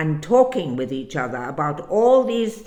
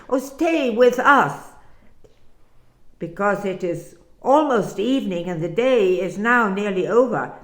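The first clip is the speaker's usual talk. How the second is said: pleading; 2 semitones higher, 4 dB louder than usual. Acted. Disciples urge the stranger to stay, pleading. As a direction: beg him warmly not to leave.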